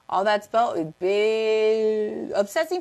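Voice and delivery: slow breathy whisper; slow whispered aside to viewers. Acted. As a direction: hush it like a secret. Sudden unvoiced aside.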